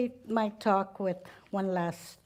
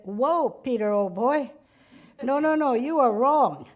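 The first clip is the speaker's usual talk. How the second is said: argumentative protest; 2 semitones higher, 3 dB louder than usual. Acted. Man protests to Saint Peter at the gates, argumentative. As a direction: insist Peter is wrong. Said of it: "The man started to get argumentative".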